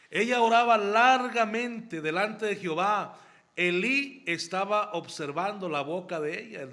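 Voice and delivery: preaching forcefully. Real, not acted. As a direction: proclaim it to the whole church. Preaching emphasis. (proclamación fuerte y aguda)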